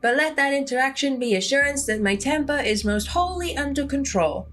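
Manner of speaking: lightly voiced prim, proper cat; a hint of a haughty talking cat; mildly put-on refined cat; Gretchen the cat. Gretchen addresses Big Bumbo.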